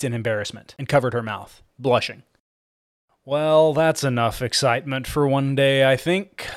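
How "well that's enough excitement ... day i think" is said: weary flat monotone; tired, bored drone; exhausted monotone. Acted. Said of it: "in an exhausted monotone".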